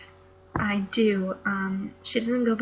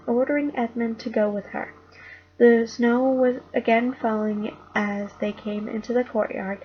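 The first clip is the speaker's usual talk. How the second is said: put-on reading a children's book aloud, a bit louder; story reading; 4 dB louder than usual. A narrator's reading. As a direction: read it like a bedtime chapter to the household. Reads Narnia to family.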